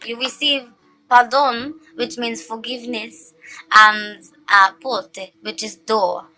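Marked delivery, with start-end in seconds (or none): 1.1-1.8 "pardon" in attempted French, nasal-ended; sexy French accent. Real, not acted. Card reader naming her French oracle card, French accent. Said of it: "say it in a sexy French accent". 4.8-5.3 "porte" in attempted French; sexy French accent. Real, not acted. Card reader translating the card for viewers, French accent. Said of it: "say it in a sexy French accent".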